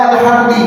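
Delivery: "alhamdi" ending on an i vowel; akhiran -i. Shown as a demonstration. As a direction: end "alhamdi" on i instead of u. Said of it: "Kenapa dibacanya alhamdu bukan alhamda". ("alhamdi" dengan bunyi akhir i)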